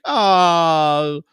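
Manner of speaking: high squeaky mock whine from the pet; voicing the dog. Owner voices his dog whining at him, high mock protest. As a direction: pipe it up high as the dog complaining. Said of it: "she's like".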